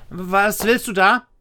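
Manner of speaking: loud, high, slow alarmed question; called out. A narrator's reading. Lisa challenges Mama at her bedroom door, calling out. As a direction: call it out high, drawing the words out. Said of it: "rief Lisa".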